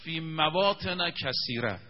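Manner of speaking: measured Quran chant, stretched vowels; Quranic recitation. Shown as a demonstration. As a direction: intone the verse slowly like a reciter. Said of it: "من بخونم آیه رو".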